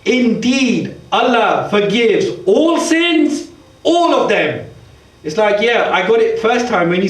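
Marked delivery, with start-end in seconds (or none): 0.0-4.7 "all" stressed both times, slow on "all sins"; extra emphasis. Shown as a demonstration. Preacher showing the repetition in English, with extra emphasis on "all". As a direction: land on "all sins", then restate "all of them". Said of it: "just for extra emphasis".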